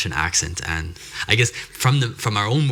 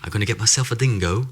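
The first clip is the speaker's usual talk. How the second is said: rough attempt at an Australian accent; lightly put-on Australian accent; 3 semitones higher than usual. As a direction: try a jokey Australian accent. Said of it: "how do you say it in an Australian accent?".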